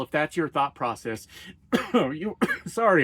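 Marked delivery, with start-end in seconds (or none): 1.6-3.0 coughing through the words; choking. Real, not acted. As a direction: speak while choking a bit. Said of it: "I'm choking a little bit".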